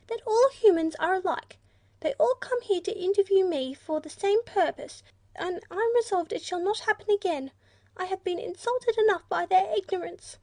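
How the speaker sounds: an offended creature scolding the humans; high-pitched irritable platypus. A narrator's reading. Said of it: "in a high-pitched and irritable voice".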